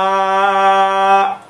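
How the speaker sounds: Ah held long, open and oral; non-nasal A. Shown as a demonstration. Teacher testing with nose closed, long oral vowel. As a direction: sustain a steady open Ah from the mouth. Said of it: "el sonido no es nasal".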